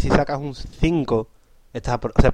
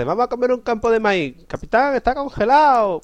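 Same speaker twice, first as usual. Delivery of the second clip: high-pitched mock soldier calling to his captain; hammed-up soldier's complaint; complaining soldier; 9 semitones higher than usual. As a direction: whine it high, dragging out the last word. Acting out hungry soldier to captain.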